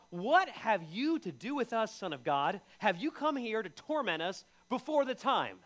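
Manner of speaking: hammed-up demon outcry; demons crying out. Demons cried out, quoted.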